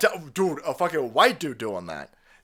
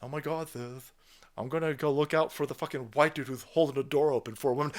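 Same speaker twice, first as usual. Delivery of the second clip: soft, dismissive onlooker voice, much softer; mock bystander; 5 dB quieter than usual. Mocking bystanders ignoring the attack, soft mock voice. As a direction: brush it off like a scared bystander. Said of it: "every white person's like".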